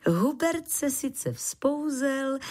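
ordinary delivery

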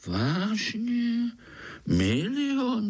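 astonished little squirrel; amazed. Acted. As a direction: marvel at it. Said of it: "divil se Pája".

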